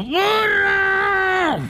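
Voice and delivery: high, desperate shout for the donkey; shrill cry from a drowning ant; ant screaming for help. Acted. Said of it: "Y gritó".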